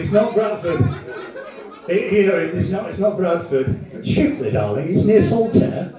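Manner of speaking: lightly put-on posh local; posh Shipley resident. Comic mocking Shipley's pretensions to the crowd, lightly posh. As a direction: play a mildly snobby Shipley local. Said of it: "Shipley pretends to be posh".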